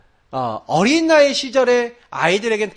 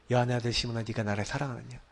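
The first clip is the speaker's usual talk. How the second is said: gentle, tender Jesus; 7 semitones lower, 12 dB quieter than usual. Retold or imitated. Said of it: "예수님은 이렇게 세심한 분이네요".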